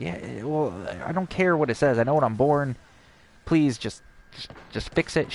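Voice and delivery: a little upset. Retold or imitated. Patient to receptionist over a wrong birth date, a little upset. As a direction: retell a mildly exasperated plea. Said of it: "now I'm getting a little upset".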